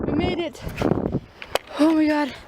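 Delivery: breathless after the climb; out of breath. Real, not acted. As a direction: puff between the words. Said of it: "I'm out of breath".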